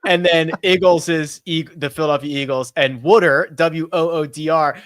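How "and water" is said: "Wooder" said as woo-der, Philly style. Shown as a demonstration. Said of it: "That's actually the way my dad says water".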